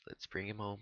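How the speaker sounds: soft whispered hope; whispering. Real, not acted. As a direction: breathe it under the breath. Hushed before the attempt.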